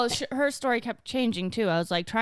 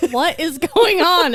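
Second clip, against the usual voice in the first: laughing; 6 semitones higher, 7 dB louder, slower than usual. Real, not acted. Laughing disbelief at insult.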